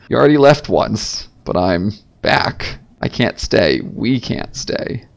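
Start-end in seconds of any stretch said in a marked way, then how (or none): 3.8-5.0 quiet. Acted. Sad admission about leaving town.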